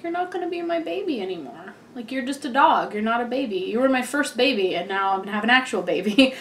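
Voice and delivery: teary. Retold or imitated. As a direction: tell the dog she's losing her place, near tears. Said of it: "and then I started tearing up".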